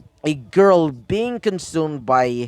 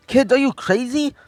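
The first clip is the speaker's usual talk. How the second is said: much higher, incredulous policeman voice; alarmed disbelief; 9 semitones higher than usual. Acted. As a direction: pitch it way up in disbelief. Policemen alarmed at reckless kid.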